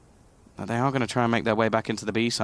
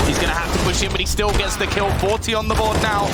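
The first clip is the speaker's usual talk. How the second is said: raised, energetic play-by-play; excited caster; 8 semitones higher than usual. Real, not acted. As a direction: pick up the pace of the call. Rising play-by-play.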